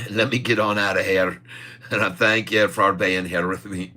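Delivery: lightly attempted Irish accent; jokey mock Irish. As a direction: put on a playful Irish lilt. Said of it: "We're gonna finish off with a little Irish".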